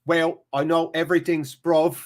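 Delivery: lightly put-on Cockney; Cockney accent. Shown as a demonstration. Streamer trying an English accent on request, Cockney. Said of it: "You want, like, Cockney?".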